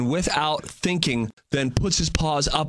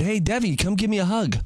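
put-on calling to child; 6 semitones higher than usual. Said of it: "I said".

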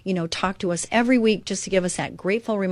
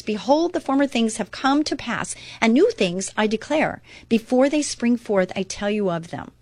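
the Lord declaring, raised high; proclaiming; 3 semitones higher than usual. Acted. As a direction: lift it like a prophecy, higher. Quoting the Lord in Isaiah.

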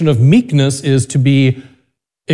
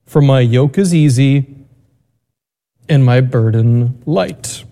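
Gospel reading. Acted. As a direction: read scripture aloud with reverence.

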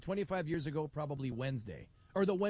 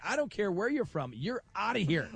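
livid official; 4 semitones higher, 4 dB louder than usual. Retold or imitated. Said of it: "He was just livid".

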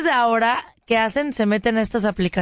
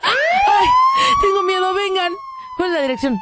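mock frightened plea; 2 semitones higher than usual. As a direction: fake a scared victim pleading to police. Woman fakes fear to police.

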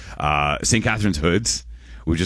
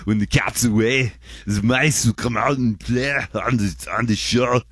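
lightly voiced Ani, a touch higher; a hint of Ani's voice, playful; imitating Ani; 4 semitones higher than usual. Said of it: "as if Ani, Ani's saying".

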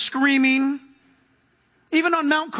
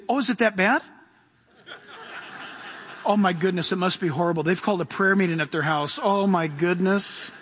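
mock alarmed religious person; 3 semitones lower than usual. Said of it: "they say".

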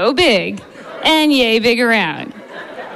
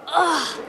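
short, higher straining "ugh"; effortful grunt; 4 semitones higher, 5 dB quieter than usual. Acted. Doctor yanking on forceps, strained grunt.

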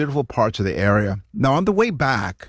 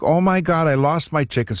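mock frantic; 5 semitones higher than usual. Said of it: "she is, like, frantic".

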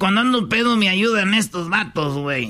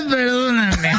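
higher-pitched, fake tearful plea; mock crying apology; 4 semitones higher, slower than usual. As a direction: beg forgiveness with hammed-up sobs. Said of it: "vas a venir a pedir perdón llorando".

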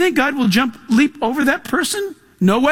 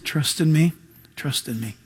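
very low, very soft, calm whisper of God; still small voice; 7 semitones lower, 6 dB quieter than usual. Pretend. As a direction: hush it down to a gentle murmur. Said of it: "whispering still small voices to you".

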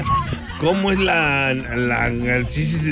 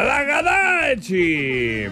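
drawn-out shout; 3 semitones higher, much slower than usual. Acted. Radio catchphrase shout.

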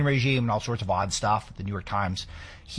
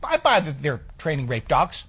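high-pitched, louder burst of mock agreement; mock believer; 4 semitones higher, 3 dB louder than usual. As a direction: play someone eagerly buying the claim. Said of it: "Because if they say".

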